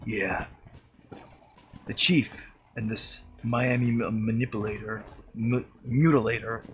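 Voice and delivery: lightly voiced Snake; a hint of the stealth soldier. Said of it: "snake voice".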